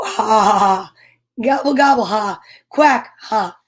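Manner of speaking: animal calls punctuated with mock laughs; hammed-up farmyard ha-has; animals laughing. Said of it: "laughed and laughed".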